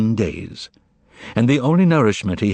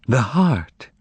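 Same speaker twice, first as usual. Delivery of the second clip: exclaim; 5 semitones higher than usual. Acted. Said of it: "exclaimed Margarita".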